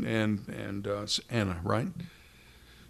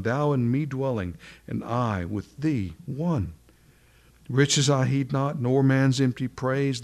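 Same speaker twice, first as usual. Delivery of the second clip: reciting a hymn. Acted. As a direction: lift the old words like a proclamation. Recites the next hymn verse.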